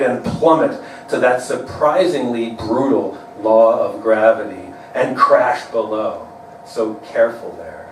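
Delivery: measured poem delivery with stressed images; poetry reading. Acted. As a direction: read your poem to an audience, line by line, pausing at breaks. Reads own poem aloud.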